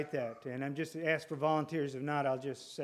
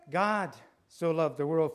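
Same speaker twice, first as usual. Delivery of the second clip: "God" lifted and hit first; stress on GOD; 4 dB louder than usual. Shown as a demonstration. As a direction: open with a punched God. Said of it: "put the emphasis on different parts of the verse".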